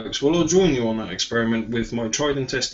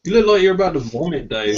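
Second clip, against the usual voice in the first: laughing; 6 semitones higher, 4 dB louder than usual. Real, not acted. Laughing at friend's face.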